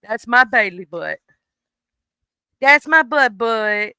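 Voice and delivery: affectionate coo to the dog; doting pet talk. Real, not acted. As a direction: dote on the dog. Praising the dog.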